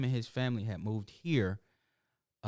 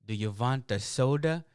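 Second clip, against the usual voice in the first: badly faked Russian accent; horrible Russian accent. KFC manager offering installer a drink, bad Russian accent. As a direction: put on a clumsy Russian accent. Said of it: "that was my horrible Russian accent".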